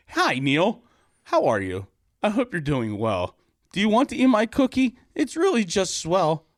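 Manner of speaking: put-on high-pitched, excited girlish voice; high, eager little girl voice; eager Susie. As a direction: sweetly tempt him. Susie character voice.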